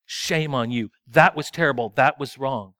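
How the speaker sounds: condemning God. Pretend. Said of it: "if God was nothing but condemning".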